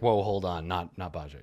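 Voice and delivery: muffled mic, like in a barrel; talking into a barrel; inside a barrel. Real, not acted. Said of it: "you sound like you're in a barrel".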